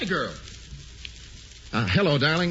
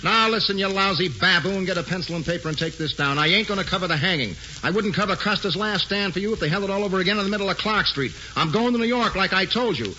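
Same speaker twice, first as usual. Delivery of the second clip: telling off; 4 semitones higher than usual. Acted. Hildy tells off editor by phone.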